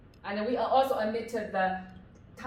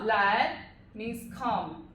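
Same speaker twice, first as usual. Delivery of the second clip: 来 said slowly and clearly, drawn out; slow it right down so 来 is clear; slow model phrase; much slower than usual. Shown as a demonstration. Teacher modelling slowly for students.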